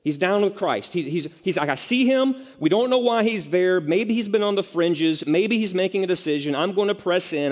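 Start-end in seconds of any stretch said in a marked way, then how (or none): 1.7-7.5 high-pitched, eager rush of conviction; acted enthusiasm. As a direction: play the keen new follower, all in. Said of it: "okay, he's enthusiastic".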